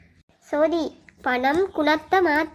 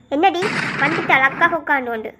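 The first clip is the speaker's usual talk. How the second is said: cross, impatient rebuke; irritated scolding. Acted. Older sister woken at night by a request, irritated. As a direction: snap at an unwelcome night visitor.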